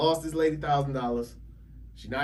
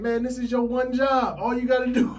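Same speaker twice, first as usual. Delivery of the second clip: mock angry rant, much higher and louder, with a laugh; retold scolding; 11 semitones higher, 6 dB louder than usual. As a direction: play the agent chewing him out, hammed up. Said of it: "He cussed me out".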